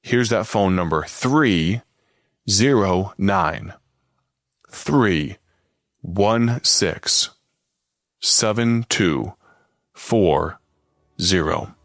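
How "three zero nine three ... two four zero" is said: each digit spaced out with long pauses; slow dictation. Shown as a demonstration. Radio preacher gives listeners his text number slowly. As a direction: read the number slowly so they can write it. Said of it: "I'm gonna give it to you one time, real slow".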